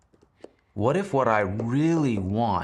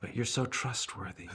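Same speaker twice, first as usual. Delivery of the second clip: sarcastic; 2 semitones higher, 8 dB quieter than usual. Acted. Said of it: "detect sarcasm".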